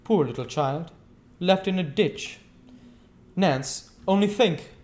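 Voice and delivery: mock pity. A narrator's reading. Fagin feigning pity.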